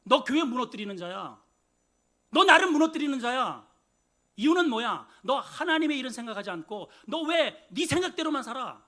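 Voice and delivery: scolding that builds from firm to loud; harsh scolding. Retold or imitated. Jesus scolding Peter, building to a loud rebuke. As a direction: pile on the accusations, rising in anger. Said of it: "더 혹독한 말이".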